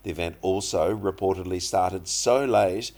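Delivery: slow, careful English news reading; news read for learners. Acted. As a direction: read the article slowly for students. Reads news story aloud. (อ่านข่าวภาษาอังกฤษช้าๆ ชัดๆ ให้นักเรียน)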